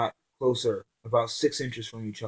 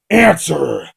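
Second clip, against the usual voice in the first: higher, much louder barked demand; angry demand at gunpoint; growled order; 6 semitones higher, 13 dB louder than usual. Acted. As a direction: snap it like a threat. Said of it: "Zakaris growled out".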